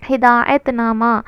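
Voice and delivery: ہدایت نامہ said slowly, with weight on ہدایت; slow emphasis. Shown as a demonstration. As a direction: spell out ہدایت نامہ so it sticks. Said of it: "یاد رکھیے آپ یہ ٹرم کو". (اصطلاح ہدایت نامہ کو آہستہ اور زور دے کر)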